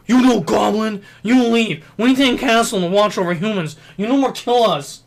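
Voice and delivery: loud, high-pitched broken-English goblin. Acted. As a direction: bark it out like a crude goblin. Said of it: "that's my goblin voice".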